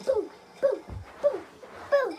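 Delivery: punchy separate booms; imitated blows. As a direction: mimic each whack with a short "boom". Acts out hitting with branch.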